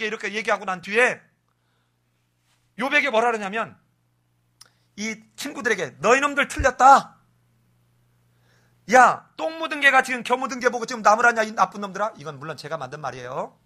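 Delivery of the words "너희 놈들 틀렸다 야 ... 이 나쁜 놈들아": scolding. Retold or imitated. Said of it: "이러면서 야단치면서".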